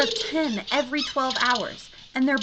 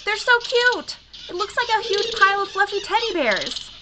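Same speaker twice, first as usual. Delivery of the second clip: high, loud squeal of delight; gushing delight; 6 semitones higher, 5 dB louder than usual. Acted. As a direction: coo over something adorable. Sees the fluffy creatures.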